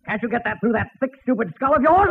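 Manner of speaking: rising into an irritated jab; a touch of annoyance from the father at Mel; exasperated. Acted. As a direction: snap the stupid skull part.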